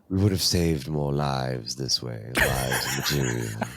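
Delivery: slow, deliberate character voice; Thrawn. Acted. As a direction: draw each phrase out with measured theatrical weight. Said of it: "so enjoying your Thrawn".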